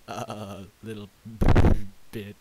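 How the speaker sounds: slow, broken words with shuddering between; shivering. Acted. Shivering pony says whether he is warmer, teeth chattering. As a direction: chatter through it as if freezing.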